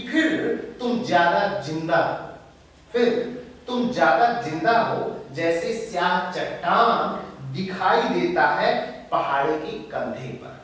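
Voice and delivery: declaimed verse with pauses between phrases; emphatic verse reading, falling away at the close; poetry recitation. Acted. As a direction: recite firmly, letting each phrase stand. Recites the poet's lines.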